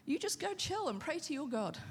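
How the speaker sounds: breezy and soft, brushing it off; casual king. Retold or imitated. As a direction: shrug it off like it's nothing. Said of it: "the king went".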